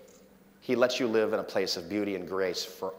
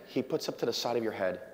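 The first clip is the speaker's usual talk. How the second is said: ordinary delivery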